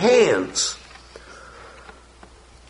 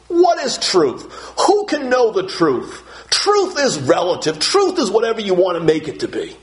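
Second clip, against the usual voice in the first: raised, dismissive shrug of a question; scoffing Pilate; 4 semitones higher than usual. Retold or imitated. Pilate waving off Jesus with a dismissive scoff. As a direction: brush truth aside like it's nothing. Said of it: "says what so many people today say".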